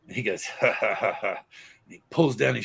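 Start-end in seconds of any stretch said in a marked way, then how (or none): 0.4-1.4 mock gloating laugh. Boy gloating at girl by the fence, mock laugh. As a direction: laugh smugly as the boy about to win.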